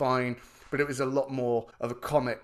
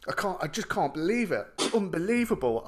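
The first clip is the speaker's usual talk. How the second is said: higher-pitched imitation of an amazed dad; excited disbelief; 5 semitones higher than usual. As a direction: play a father overcome with excitement. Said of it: "like, with excitement".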